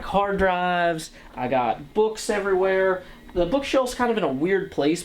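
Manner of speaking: mock TV host tour. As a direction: show off the office like on TV. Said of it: "pretend I was Bob Vila".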